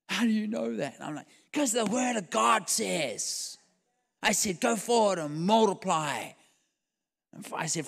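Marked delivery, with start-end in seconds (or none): 0.1-1.0 high-pitched, pleading disbelief; imitated incredulous question. Waiter questioning the pastor, high and incredulous. 1.5-6.3 high, drawn-out declaration; insistent proclamation. Retold or imitated. Pastor insisting to the waiter, high proclamation.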